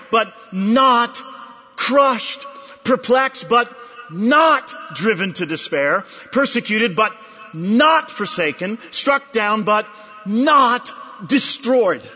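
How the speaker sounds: NOT leaned on each time; but not, with the weight on not; stress on not. Shown as a demonstration. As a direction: hit the not in every pair. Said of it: "That's the accent".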